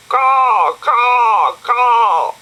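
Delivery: high loud cawing bird call; loud high crow cry. Acted. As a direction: caw like a crow up a tree. Crow mocks Dougal.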